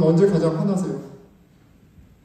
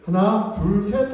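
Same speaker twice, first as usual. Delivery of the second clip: louder, firm dad counting down; stern counting to three; 2 semitones higher, 4 dB louder, much slower than usual. Retold or imitated. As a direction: count it out like a strict father. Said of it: "좀 엄한 모드로".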